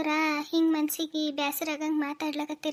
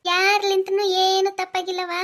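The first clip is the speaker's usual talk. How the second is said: higher, louder mocking lilt; sarcastic sing-song; 4 semitones higher, 5 dB louder than usual. Sister-in-law mocks Pooja's question in a sarcastic sing-song.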